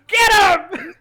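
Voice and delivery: loud high rallying shout; urgent order. Acted. Seventh urging Leo after Radagast, loud shout. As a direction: fire him up to chase. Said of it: "slaps you on the back".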